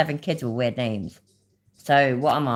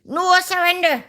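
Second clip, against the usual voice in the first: bad Belfast accent; 12 semitones higher, 3 dB louder than usual. Streamer mimicking a Northern Irish slogan, bad Belfast accent. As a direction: do a hammed-up Belfast accent, stretched and pitched up. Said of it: "That was a terrible fucking Belfast accent".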